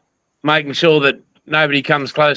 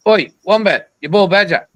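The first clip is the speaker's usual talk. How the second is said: calling out; 4 semitones higher than usual. Retold or imitated. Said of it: "that's how we communicate".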